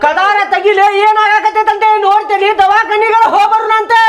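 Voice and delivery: worried father calling to his son behind the door; pleading call. Acted. Father pleads through closed door.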